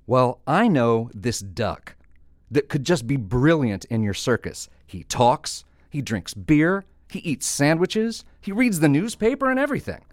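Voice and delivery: excited build, pitch climbing with each item; wide-eyed enthusiasm, stretching key words; eager sales pitch. Acted. Bartender eagerly pitching the duck.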